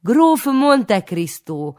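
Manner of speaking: high, loud, very slow grand announcement; mock polite. A narrator's reading. Boy cheekily tells his name to the old woman, grand and slow. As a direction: proclaim it with cheeky formality. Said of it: "válaszoltam illedelmesen".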